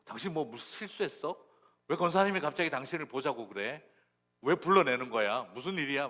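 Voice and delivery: loud, high, rapid-fire questions to a wife; agitated questioning. Retold or imitated. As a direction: demand answers like an alarmed husband. Husband anxiously interrogates his wife. (다그치듯 큰 소리로 캐묻는)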